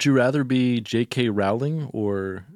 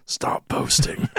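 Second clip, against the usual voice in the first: exasperated; slower than usual. Acted. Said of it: "Just exasperated".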